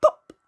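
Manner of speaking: a mock mouth pop on "pop."; popping sound. Shown as a demonstration. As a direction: burst out "pop." like a cork popping. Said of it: "you make your mouth go".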